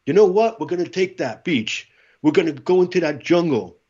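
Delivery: rising, building war cry; rallying battle cry. Retold or imitated. Marine rallying his brothers before battle, fierce and building. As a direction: fire up the troops for battle.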